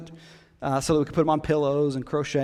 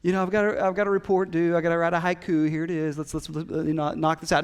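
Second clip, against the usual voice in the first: breezy mock-casual. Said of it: "So it wasn't just this".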